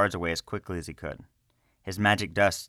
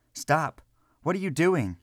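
high urgent cry to stop them; alarmed shout; 10 semitones higher, 3 dB louder than usual. A narrator's reading. Selvin to guards entering house, alarmed high shout.

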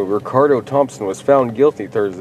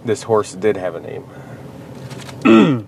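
slow, deliberate news anchor read; newscaster voice; much slower than usual. Shown as a demonstration. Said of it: "In your best newscaster voice".

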